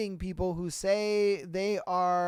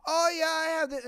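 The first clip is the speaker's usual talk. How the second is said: mock show-off; 7 semitones higher, faster than usual. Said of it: "be like".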